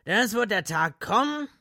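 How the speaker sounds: high, loud doom proclamation; proclaiming. Acted. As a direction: proclaim it like a prophet. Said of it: "verkündete Gatlin".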